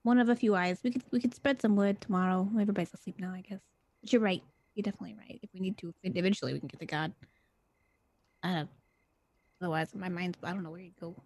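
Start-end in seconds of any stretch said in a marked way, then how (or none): 2.9-11.1 soft low whisper; hushed so others sleep. Real, not acted. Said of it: "you don't have to whisper so quiet".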